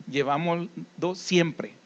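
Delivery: "siempre" stretched out slowly and falling; slow down and press on "siempre"; slow stress on siempre. Shown as a demonstration. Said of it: "Eso lo he remarcado, esa palabra, siempre". ("siempre" lento y enfatizado)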